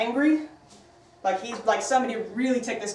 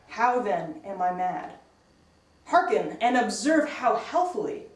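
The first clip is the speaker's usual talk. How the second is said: slow, deliberate reading of a creepy tale; dramatic reading; slower than usual. Acted. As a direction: read it slowly, letting the madness creep in. Teacher reads Poe passage aloud.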